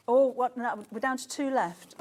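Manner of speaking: surprised. Real, not acted. Sudden stock drop on air.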